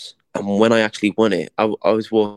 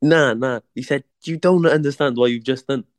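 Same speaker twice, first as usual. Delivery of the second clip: higher, insistent mate's voice; imitating his mate; 5 semitones higher than usual. Mate Spider insisting the boxer doesn't get it, higher and insistent. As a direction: insist like his friend would. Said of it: "He's going".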